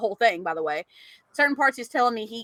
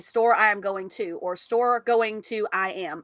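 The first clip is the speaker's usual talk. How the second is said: slow scrambled order; 2 semitones lower, slower than usual. Shown as a demonstration. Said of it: "you can say".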